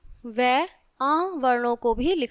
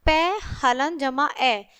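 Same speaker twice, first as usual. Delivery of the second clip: 1 slow spelling out; slower than usual. Shown as a demonstration. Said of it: "तो क्या बना बच्चों?".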